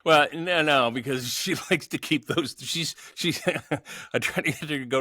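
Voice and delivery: high-pitched, laughing through the words; real amusement. Real, not acted. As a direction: break into chuckles while answering. Amused answer about doctor-shy wife.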